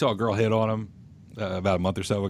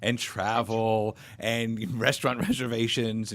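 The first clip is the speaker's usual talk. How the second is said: amused mockery; 4 semitones higher, much slower than usual. Real, not acted. Mocking what apps are for.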